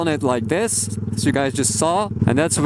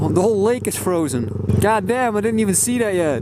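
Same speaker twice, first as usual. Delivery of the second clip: excited; 5 semitones higher, faster than usual. Real, not acted. Amazed at frozen lake.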